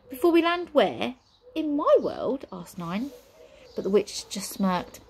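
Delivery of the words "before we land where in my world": put-on alarmed girl. Nine alarmed.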